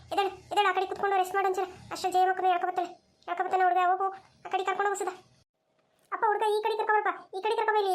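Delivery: high-pitched rescue instructions; urgent directing. Acted.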